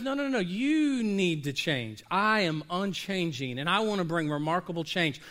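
calm, firm answer from God; a hint of a deep divine voice; God's voice. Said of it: "And God goes".

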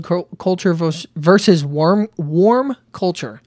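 tripping over the words, restarting mid-phrase; stumbling. Real, not acted. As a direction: fumble "versus warm, warm culture" with false starts. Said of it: "Let me say that again".

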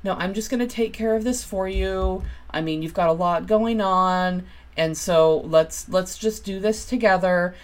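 compassionate, lifted helper voice, lightly acted; deep compassion. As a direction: offer help with lightly put-on sympathy. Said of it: "it can also come off as deep compassion".

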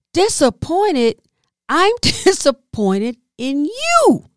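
slow, drawn-out mocking repeat; 1 scornful echo. Comedian mocking the staff's word back at them.

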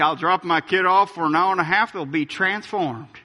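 parent quoted with a slight Southern twang; lightly Southern-accented parent. Acted. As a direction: put a touch of the American South on it. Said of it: "I put a Southern accent on it".

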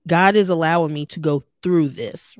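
THROUGH leaned on firmly as the key word; stress on THROUGH. Real, not acted. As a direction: put the emphasis on "through". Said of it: "keep putting emphasis on the word through".

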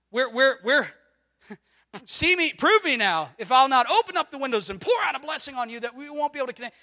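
loud, fast, fervent preacher's cry; fervent shout. Acted. Preacher shouting God's promise to the congregation, fervent and fast.

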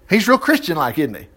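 mild sarcasm on real Christian-like; sarcastic. Shown as a demonstration. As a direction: ask it with a dry sarcastic edge. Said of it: "Well, no, he wasn't".

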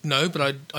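usual speaking voice

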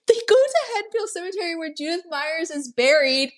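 high-pitched, laughing delivery; talking through laughter. Real, not acted. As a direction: carry on while still laughing. Talks on while laughing at joke.

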